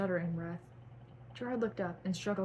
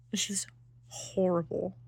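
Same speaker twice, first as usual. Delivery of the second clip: cringing whisper; breathy aside of shame, no voice. Real, not acted. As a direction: whisper it in real embarrassment. Embarrassed at own old writing.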